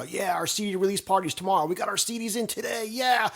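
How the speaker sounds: high-pitched, giddy hurrah; mock excitement. Band celebrating CDs arriving before the party, hammed-up excitement. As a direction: crow it like a sitcom band celebrating. Host acts band's glee, imagined scene.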